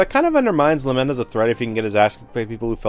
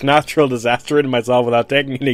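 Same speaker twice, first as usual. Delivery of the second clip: mock nonchalant; 2 semitones higher, 4 dB louder than usual. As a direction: shrug off a hurricane like it's nothing.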